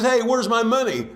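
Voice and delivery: high, loud, pushy demand; demanding creditor. Acted. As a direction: bark for the money. Freed man demands small debt.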